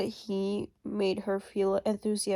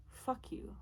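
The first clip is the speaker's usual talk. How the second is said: bitter whispered curse, much softer; breathed out in a venomous whisper; 4 semitones higher, 14 dB quieter than usual. Real, not acted. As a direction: hiss it under the breath. Repeats curse, second whispered.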